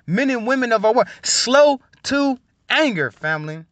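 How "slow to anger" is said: slow, higher, stretched words; drawn-out emphasis. Real, not acted. Preacher listing what the family practices, slowly drawn out. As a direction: stretch each word for weight. Lists virtues, drawing out the words.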